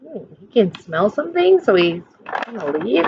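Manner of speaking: ordinary delivery, nothing marked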